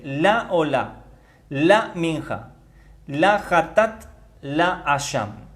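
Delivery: slow item-by-item reading, "la" stressed before each word. Shown as a demonstration. Teacher helps those without Hebrew understand, "la" accented and drawn out. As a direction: set "la" apart with a long, accented A. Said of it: "L A con acento en la A".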